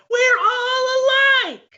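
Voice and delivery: high, drawn-out call from far off; from another room. Acted. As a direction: siblings chanting from another room. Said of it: "You hear from the other room".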